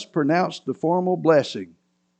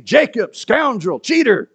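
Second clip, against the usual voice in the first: name-calling; 8 semitones higher, 3 dB louder than usual. A narrator's reading. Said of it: "named him as a cheater".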